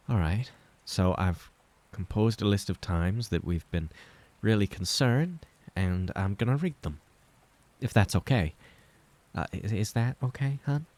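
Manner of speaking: lightly voiced mother, tentative and kind; a gentle mother easing into hard news; Clara's careful voice.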